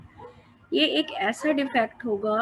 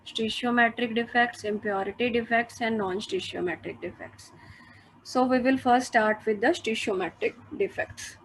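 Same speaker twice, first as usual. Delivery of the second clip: slow, measured dictation to students; dictating notes; much slower than usual. Acted. Teacher dictating notes to class, slow and measured. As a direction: spell it out slowly so they can write it down.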